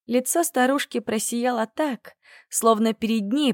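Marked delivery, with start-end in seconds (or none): none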